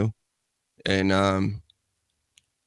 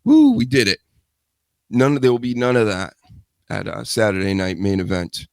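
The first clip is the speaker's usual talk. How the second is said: winded after a workout; out of breath. Real, not acted. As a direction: talk while catching your breath. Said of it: "I'm all out of breath".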